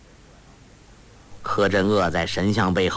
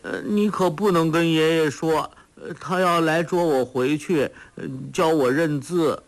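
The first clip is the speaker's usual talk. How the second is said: put-on simple-minded girl; 7 semitones higher than usual. Sha Gu pleading.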